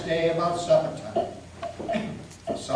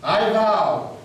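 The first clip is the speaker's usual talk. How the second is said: a louder, desperate exclamation; 3 semitones higher, 6 dB louder than usual. A narrator's reading. Fed-up farmer cursing his luck, desperate exclamation. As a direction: burst out in despair. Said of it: "kind of desperate".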